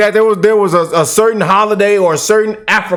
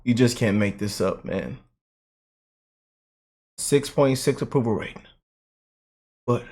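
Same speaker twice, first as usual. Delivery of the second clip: much softer, lower, worn-out mutter; weary mutter; 10 semitones lower, 11 dB quieter than usual. Real, not acted. Vlogger sighing over the mayor's rating, softly defeated. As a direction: let it sink in, defeated. Deflated after ranting.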